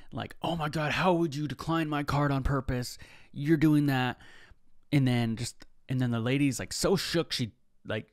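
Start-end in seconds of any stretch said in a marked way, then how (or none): 0.4-4.2 higher, accusing complaint at the cashier; mock angry scene. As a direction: play the customer blaming the cashier, mildly hammed-up. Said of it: "she's making this huge, huge scene".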